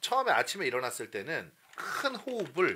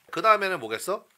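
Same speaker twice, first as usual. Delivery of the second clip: ordinary talk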